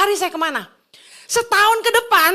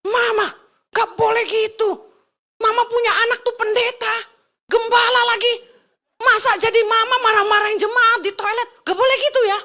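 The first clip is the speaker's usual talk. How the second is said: re-enacted telling-off, higher than usual; retold scolding; 5 semitones higher than usual. Daughter telling off her mother over the toilet, retold scolding. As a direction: scold in a raised, insistent pitch. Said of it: "langsung marah saya".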